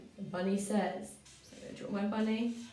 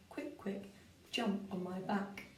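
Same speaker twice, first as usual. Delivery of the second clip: whisper; 7 dB quieter, slower than usual. Acted. Rereading bunny line while writing.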